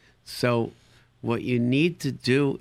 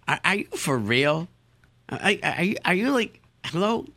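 mock incredulous; 4 semitones higher than usual. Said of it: "I just looked at them like".

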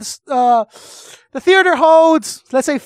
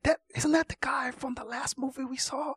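hushed, much softer whisper in a dark cinema; mock theater whisper; 9 dB quieter than usual. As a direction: whisper so the row behind won't hear.

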